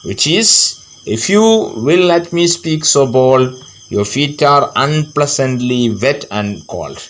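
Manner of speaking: slow, measured verse reading; poem recitation. A narrator's reading. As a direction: recite the verse slowly for pupils.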